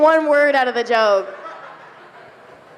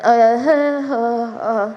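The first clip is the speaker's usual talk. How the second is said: low, long, drawn-out oh yeah; 4 semitones lower than usual. Retold or imitated. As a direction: sound impressed at the mirror.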